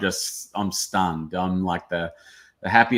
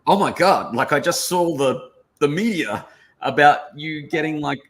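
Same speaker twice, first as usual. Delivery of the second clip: excited mum; 6 semitones higher, 4 dB louder than usual. Retold or imitated. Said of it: "she's like".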